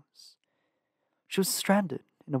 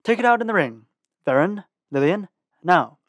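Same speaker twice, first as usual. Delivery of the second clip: loud command; 4 semitones higher, 8 dB louder than usual. A narrator's reading. Brulo keeps commanding loudly.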